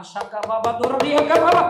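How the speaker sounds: loud burst of put-on tongues; mock speaking in tongues. Preacher asks if tongues would calm a child, mocking them. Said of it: "அந்நிய பாஷை பேசுவீங்களா?".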